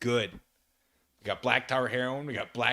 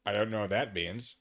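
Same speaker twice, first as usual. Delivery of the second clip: ordinary talk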